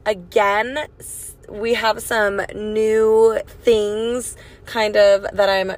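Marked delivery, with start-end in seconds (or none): none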